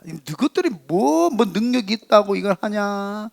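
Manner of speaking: theatrical ridicule of the builders; imitated mocking sneer. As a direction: act out scornful opponents jeering. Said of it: "조롱하고 비웃습니다".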